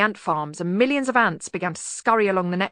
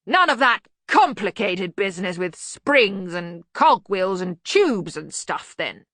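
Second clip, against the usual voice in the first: blustering Arch-Chancellor; 5 dB louder, slower than usual. Acted. Ridcully character dialogue.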